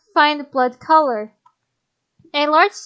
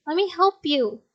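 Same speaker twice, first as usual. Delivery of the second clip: soft tender; 4 dB quieter than usual. Acted. Heroine soft plea.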